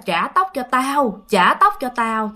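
lightly voiced ghost woman, slow; imitating an eerie, insistent spirit. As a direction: stretch out the haunting demand. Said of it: "cái người này cứ nắm kéo cái tóc mà nói".

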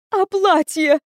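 mother despairing over the dress; mother wringing hands, wailing; wailing dismay. A narrator's reading. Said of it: "Мама заломила руки".

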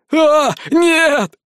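high panicked yelp; terrified cry of a cornered man; wild scream. A narrator's reading. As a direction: scream as you burst out the door. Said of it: "с диким воплем выскочил модник".

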